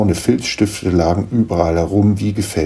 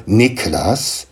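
stern; 2 semitones higher than usual. Acted. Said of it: "seine Mutter sah ihn streng an".

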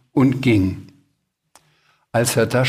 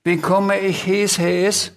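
high little creature asking a question; little dragon voice; 7 semitones higher, slower than usual. A narrator's reading. Small dragon asks the Sams, high puzzled question. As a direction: ask in a higher little dragon voice. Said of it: "Der kleine Drache fragte".

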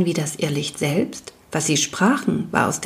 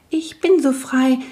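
shy will-o'-wisp; 6 semitones higher than usual. Acted. Wisp introduces itself.

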